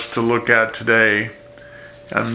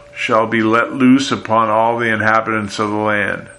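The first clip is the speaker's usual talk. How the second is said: a slightly raised, proclaiming Bible reading; scripture reading. Acted. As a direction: read the prophecy out to the congregation. Pastor reads scripture aloud.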